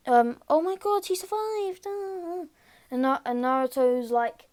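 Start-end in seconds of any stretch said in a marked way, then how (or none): 0.5-2.4 tearful relief. Retold or imitated. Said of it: "Hinata pretty much starts crying".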